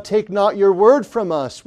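loud, high desperate plea; crying out to God. Retold or imitated. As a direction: cry it out to God like a preacher pleading. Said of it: "cried out to God".

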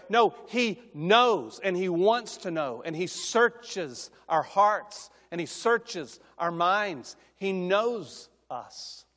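slow, weighty, emphatic preaching. Acted. Preacher telling the congregation that God knows them, slow and emphatic. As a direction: drive each phrase home slowly.

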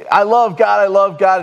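high, loud, effusive repetition; gushing drunk man. Retold or imitated. Preacher mimics drunk stranger who keeps hugging him, loudly gushing. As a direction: imitate an over-eager man proclaiming his love. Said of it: "He started saying".

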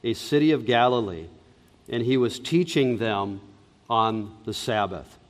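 measured, solemn Bible reading; scripture reading. Acted. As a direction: read the text aloud to the congregation. Reads the Bible passage aloud.

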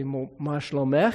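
a pastor shows how to greet a woman in Hebrew, gently asking. Shown as a demonstration. מה שלומך לאישה. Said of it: "if you were talking to a woman, you'd say".

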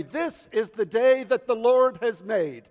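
ringing church declaration, high and loud; rousing call. Real, not acted. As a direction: proclaim it for everyone to repeat. Gives congregation a line to repeat.

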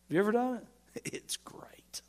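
fast, conspiratorial whisper. Real, not acted. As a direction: lean in and whisper the question. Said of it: "sudden whisper to congregation".

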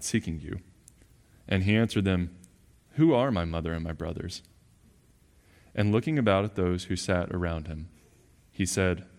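measured formal Bible reading; scripture reading. Acted. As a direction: read the passage aloud with weight. Reads the scripture passage.

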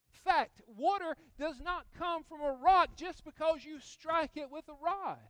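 loud, high preaching declaration; mock fact declaration. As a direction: proclaim it like an undeniable fact. Preaching mock Dwight facts.

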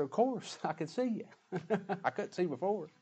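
laughing. Retold or imitated. Healed blind man answers, laughing.

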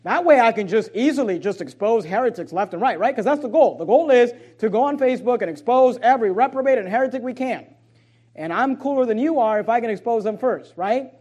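mock-eager heretic hunter, lightly done; sarcastic. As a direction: pretend to boast, with a touch of sarcasm. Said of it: "you don't understand my sarcasm".

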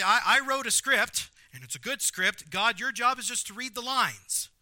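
indignant, high, loud complaint to God; ranting Jonah. Acted. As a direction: rant like an outraged, wronged prophet. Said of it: "Jonah's like, ... I'm burning with rage".

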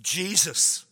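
slow, spaced-out plea; crying out. Acted. Crowd calling to Jesus for help, measured crying out. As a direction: cry it out word by word, with long pauses. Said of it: "they're literally crying out".

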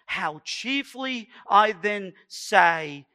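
slow, fervent declamation; measured preacher's recital of a prayer; John Wesley. Acted. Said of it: "He says".

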